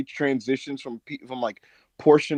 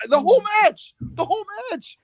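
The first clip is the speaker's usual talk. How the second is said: exasperated; 4 dB louder than usual. Real, not acted. Exasperated rant.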